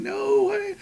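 high mock shout, slowing down; yelling at the screen. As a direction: shout warnings at the TV. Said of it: "And we're all going".

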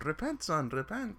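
put-on lightly Irish-accented priest, pitch lifting. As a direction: urge repentance with an Irish lilt. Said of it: "the father was, uh, Irish".

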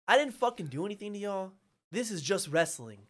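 loud start, settling into exasperation; angry protest. Retold or imitated. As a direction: protest your innocence hotly. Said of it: "I am angry".

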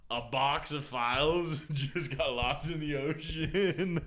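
slow, laughing disbelief. Real, not acted. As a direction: chuckle through it slowly. Laughing through the rumor.

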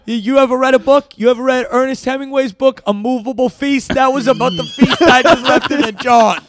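lightly sing-song rambling star; half-sing the punchline; lightly voiced Dennis Hopper riffing. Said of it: "I'll be Dennis Hopper".

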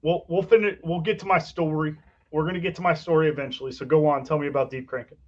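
softened, passive-aggressive concession. Real, not acted. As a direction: give way pointedly, with quiet resentment underneath. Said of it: "that was really passive aggressive".

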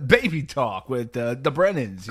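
mock radio show title; radio host voice. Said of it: "that is the perfect radio voice".

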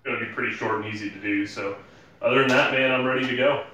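distant speakerphone sound; like talking from a phone on the table. Real, not acted. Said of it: "are you on speakerphone".

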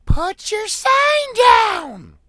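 high, drawn-out screamed heckle; shrill-pitched, loud impersonated shout; mock heckler yell. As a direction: yell it slowly like an outraged fan behind you. Acted heckler yelling at him.

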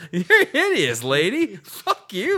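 squeaky high ghost voice; high, loud mock ghost. Ghost insults the lady.

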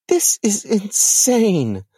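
whispered in disbelief; stunned whisper. Acted. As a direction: breathe it out, stunned. Lilith in shock.

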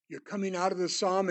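ordinary delivery

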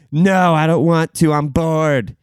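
lightly voiced whiny child; whiny kid. Bored kid refusing mom, mild whine.

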